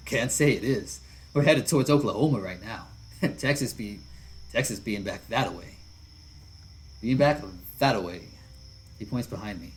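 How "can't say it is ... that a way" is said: lightly voiced hearty biker otter, louder; easygoing big lug giving an order; a hint of a burly biker calling to his buddy; big friendly biker. Jesse gives directions.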